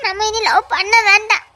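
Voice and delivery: put-on frightened girl begging to end the love, near tears; tearful pleading. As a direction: voice catching on the tears. Frightened girlfriend breaks off love.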